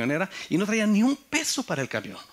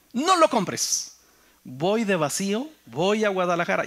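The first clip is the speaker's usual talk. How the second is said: friend calling out; 7 semitones higher, 5 dB louder than usual. Retold or imitated. Driver friend offering free ride.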